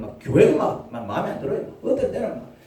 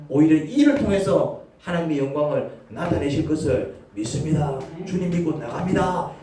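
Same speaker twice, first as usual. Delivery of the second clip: sincere confession; 3 semitones higher than usual. Retold or imitated. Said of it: "어떻게 고백합니까".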